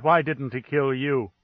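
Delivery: pleading outcry at the ambassador; cried out. Acted. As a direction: let the flat calm crack into a cry. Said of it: "she cried".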